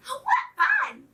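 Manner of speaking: tiny, very high squeak; squeaking chicks. A narrator's reading. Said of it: "squeaked the little chicks".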